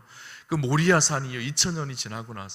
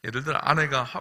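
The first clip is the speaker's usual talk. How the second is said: normal talking voice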